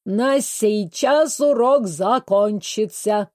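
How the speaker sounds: put-on slow, broken foreign-accented announcement; the weary teacher declaring class over, with a foreign accent; dance teacher ends the lesson, slow foreign accent. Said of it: "заявил танцор".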